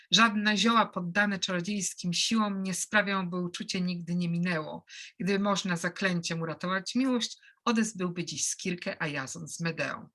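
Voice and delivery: a light poetry reading in Polish; reciting own translation. Shown as a demonstration. Translator reads his Polish version to students, lightly recited. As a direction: read the translation as verse, mildly rhythmic. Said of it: "and later my translation".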